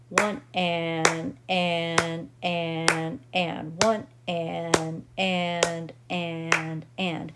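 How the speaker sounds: rhythmic count, leaning on each and; counting the offbeats. Shown as a demonstration. Teacher demonstrates saying the syncopated rhythm with stress on and. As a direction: count steadily, marking every and. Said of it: "the way we would say it if we have a steady beat".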